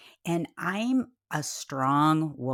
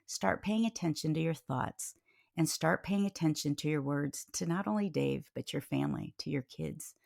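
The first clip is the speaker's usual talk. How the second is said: retold gentle correction; 5 dB quieter than usual.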